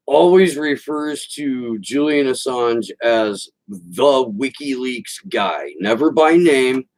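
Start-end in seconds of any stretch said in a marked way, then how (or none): 3.7-5.7 imitated condescension, slow and drawn out on "the WikiLeaks guy"; super condescending. Host sneering at the man she won't name, condescending. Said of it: "She says it in a super condescending voice".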